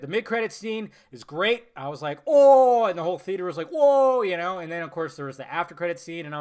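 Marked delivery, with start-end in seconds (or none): 2.3-2.8 loud, high drawn-out "oh"; retold amazed reaction. His reaction to mid-credit scene. 3.7-4.2 loud, high drawn-out "whoa"; imitated audience gasp. Imitates whole theater's reaction.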